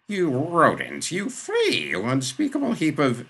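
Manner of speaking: high, loud sputtering tirade; outraged insults. A narrator's reading. Father hurls insults at Shah.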